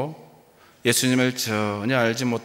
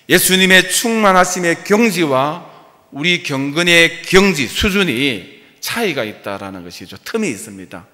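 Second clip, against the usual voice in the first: forceful preaching; 5 semitones higher, 6 dB louder than usual. Real, not acted. Preacher stressing point.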